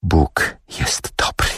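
slow, hushed, serene reply; quiet, almost whispered assurance; calm. A narrator's reading. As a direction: answer softly and unhurriedly. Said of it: "odparła matka spokojnie".

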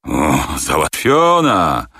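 slow, drawn-out happy cry; delighted agreement. A narrator's reading. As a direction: savour the deal. Captain delighted by money.

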